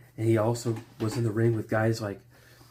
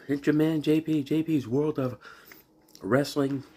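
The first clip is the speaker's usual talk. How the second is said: excited intro; 4 semitones higher than usual. Real, not acted. Energetic vlog intro greeting.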